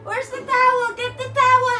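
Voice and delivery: urgent staged yelling; mock panicked shout. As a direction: ham up the labor panic.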